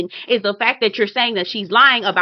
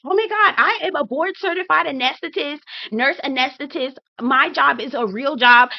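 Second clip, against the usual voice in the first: raised-pitch mock indignation, easing down gradually; imitating defensive loudness; 4 semitones higher than usual. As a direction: protest like someone caught out and talking over everyone. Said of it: "they start to get loud".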